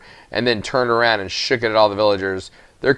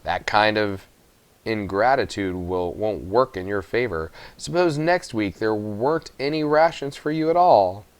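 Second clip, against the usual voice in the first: warning; 4 dB quieter than usual. Acted. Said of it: "said the miller with a bit of warning".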